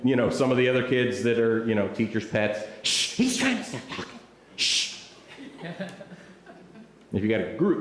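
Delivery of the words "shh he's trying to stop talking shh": high, hushed shushing; urgent hushing. Acted. Teacher's pets to chattering classmates, hushing them.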